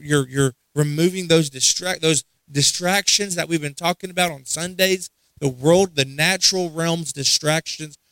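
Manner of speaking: fervent preacher praying aloud; preaching prayer. Acted. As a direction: pray it out with conviction. Pastor prays at full force.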